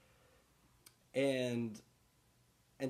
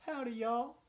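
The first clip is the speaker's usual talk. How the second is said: cowboy greeting; 7 semitones higher, 8 dB louder than usual. Pretend.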